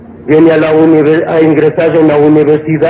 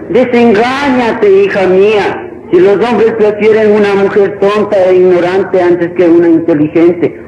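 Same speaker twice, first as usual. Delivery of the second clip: lightly voiced señora setting her daughter straight; lecturing mother; 3 semitones higher than usual. A señora disillusioning her daughter, lightly lecturing. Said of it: "La señora decía".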